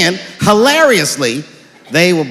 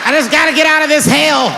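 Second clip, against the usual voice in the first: higher, shouted plea; desperate outburst; 9 semitones higher, 3 dB louder than usual. Acted. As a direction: cry it out like a trapped kid. Desperate kid wanting out.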